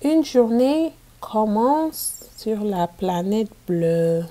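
put-on storybook reading for young pupils; reading to children. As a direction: read it out clearly for a class of kids. Teacher reads picture book aloud.

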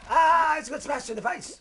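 high, loud yelp of dismay; loud high-pitched wail at a game hit; pained outcry. Real, not acted. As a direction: cry out as you get smashed.

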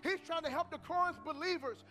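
forceful sermon delivery with stretched key words; emphatic preaching. Acted. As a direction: drive the lesson home to the congregation.

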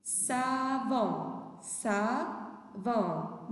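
savon stretched as sa, then von; syllable-by-syllable model. Shown as a demonstration. Teacher names the picture for pupils, syllable by syllable. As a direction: hold each syllable of savon for learners.

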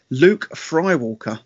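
"Skywalker" said as "Frywalker", slow and drawn out; potato pun name. Shown as a demonstration. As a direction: say "Luke Skywalker" as "Luke Frywalker", slowly. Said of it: "Bit of play there with the potato thing".

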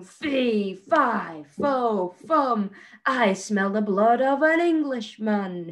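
a hint of a booming giant; hammed-up giant calling out; bellowing giant. Teacher voicing the giant for her pupils, mock bellow. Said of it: "he bellowed".

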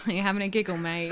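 Cockney "You having a giggle, mate?" said lightly; Cockney accent. Shown as a demonstration. British friend teaches a Cockney phrase. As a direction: tease in a Cockney voice. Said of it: "if you want more Cockney".

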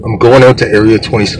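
talking around a sucker; words slurred by candy; mouth full. Real, not acted. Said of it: "I have a sucker in my mouth".

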